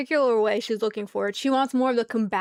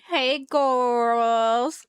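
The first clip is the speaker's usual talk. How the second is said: put-on chirpy rising hey girls the way she wanted; the way it should sound. Shown as a demonstration. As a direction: lilt the greeting up at the end. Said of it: "I wanted it to say girls".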